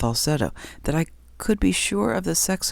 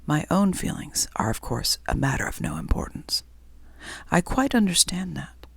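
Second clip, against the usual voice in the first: a touch of a prim, dignified man. Acted. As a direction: reread it primly. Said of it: "Let me read that again".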